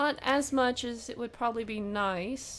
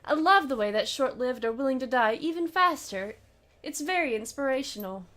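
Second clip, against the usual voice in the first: lightly voiced mocking elf, a bit louder; a hint of amused, theatrical delight; Harlequin's gleeful voice; 3 semitones higher, 4 dB louder than usual. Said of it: "He claps his hands".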